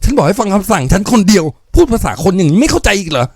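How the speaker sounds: high shrill-pitched scolding yell; shrieking. Acted. Young woman shrieking at the foreman to obey her. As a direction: shriek the order at him. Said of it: "เด็กสาวเริ่มแผดเสียง".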